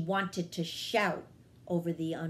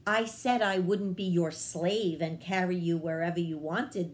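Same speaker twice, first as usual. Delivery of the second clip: sharp retort. Acted. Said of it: "the hummingbird answered sharply".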